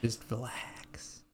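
slow, breathy calming whisper. Pretend. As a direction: soothe them, very slowly.

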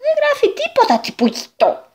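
very high, despairing wail to a friend; desperate cry. Acted. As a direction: cry out in despair, dropping on the name. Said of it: "φώναξε απελπισμένος". (απελπισμένη κραυγή)

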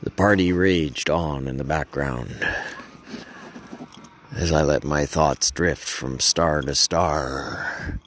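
low, unhurried stargazing reverie; dreamy narration. Acted. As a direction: let the thoughts drift, pausing between phrases.

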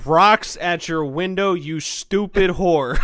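slow, loud fake threat at the window; slow mock threat. Friends teasing, he booms a slow mock threat.

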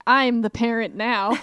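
put-on slow, loud bratty toddler; a tiny kid declaring power; bossy kid voice. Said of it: "It's like".

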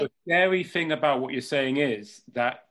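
choppy bad connection audio; breaking up. Real, not acted. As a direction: voice cutting in and out. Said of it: "you're breaking up again".

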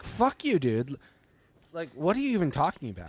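high mock angry fuck you; retold outburst. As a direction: snap back in disgust. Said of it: "and I was like".

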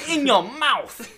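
loud, high, stretched-out holler; mock taunting yell. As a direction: draw it out as a shouted insult. Acts out gamer's insult after spitting noise.

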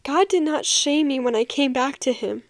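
real tears, words catching in the throat; choked up mid-testimony; voice breaking. Real, not acted. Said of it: "My voice is, like, breaking".

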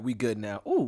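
usual speaking voice

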